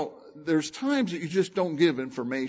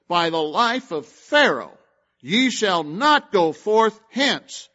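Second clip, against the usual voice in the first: louder, slow solemn oath; scripture reading; 4 dB louder, slower than usual. Acted. Preacher reading Joseph's oath to the brothers, a slow solemn declaration. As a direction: declare it like a royal vow.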